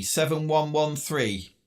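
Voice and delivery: "Seven one one three" read slowly, each number apart; slow, spelled-out numbers. Real, not acted. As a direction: dictate the numbers slowly over the radio. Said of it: "Do you want to try seven one one three?".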